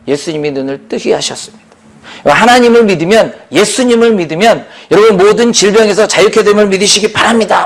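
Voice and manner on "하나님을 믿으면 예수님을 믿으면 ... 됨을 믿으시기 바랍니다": a touch raised, driven preacher's call; crying out in preaching. Retold or imitated. Preacher voicing Paul to the sick crowd, crying out. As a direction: proclaim it in one insistent sweep. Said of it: "막 그렇게 외친 겁니다".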